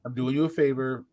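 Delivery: low, soft send-off; quietly steer him away; calm firmness. Retold or imitated. Bouncer sends a drunk to get a taxi, low and calm.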